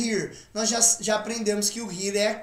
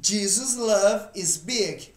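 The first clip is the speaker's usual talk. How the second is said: slow model sentence once more; slow repeat; 2 semitones lower, slower than usual. Shown as a demonstration. Teacher repeats the sentence slowly for students. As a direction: say it slowly for them to copy. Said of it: "o amor de Jesus é grande".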